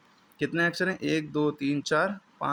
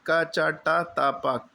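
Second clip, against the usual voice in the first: slow spelled-out recital; much slower than usual. Shown as a demonstration. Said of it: "जो हम कचट तप आपसे कह रहे थे".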